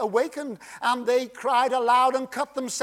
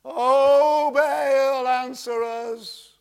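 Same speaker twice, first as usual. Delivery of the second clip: desperate plea; 2 semitones higher, 3 dB louder, much slower than usual. Acted. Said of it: "Can you picture them?".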